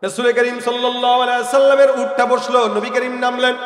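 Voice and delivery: loud, rousing sermon delivery; full-force preaching. Real, not acted. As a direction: preach it out, stretching the line endings. (জোরালো ওয়াজের সুরে)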